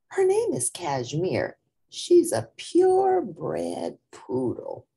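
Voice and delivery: put-on high, prim show-off girl voice; haughty girl bragging about her poodle; snooty Myrtle. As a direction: show off your purebred dog. Classmate introducing her pedigree dog.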